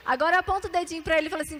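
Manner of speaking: usual speaking voice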